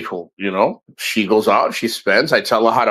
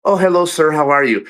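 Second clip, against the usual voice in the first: mock-polite hello, slightly raised voice; polite greeting imitation. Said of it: "if it's a foreigner".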